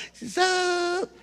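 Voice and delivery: cool casual greeting. Acted. Date arrives playing it cool.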